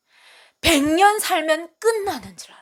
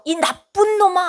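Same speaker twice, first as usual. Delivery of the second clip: higher, louder mock scolding; scolding God; 6 semitones higher, 6 dB louder than usual. God imagined scolding a disobedient sinner, mock angry. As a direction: bark it like a stern father punishing. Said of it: "하고 막 얘기를 한다고 해보십시오".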